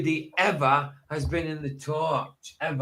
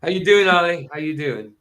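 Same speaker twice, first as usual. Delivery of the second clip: jokey greeting; 5 dB louder than usual. Pretend. Greeting renamed friend jokingly.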